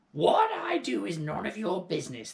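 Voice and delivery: put-on high, loud cranky old-woman orders; bossy grandmother. A narrator's reading. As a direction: bark orders like a grumpy old hag. Grandmother snapping at George.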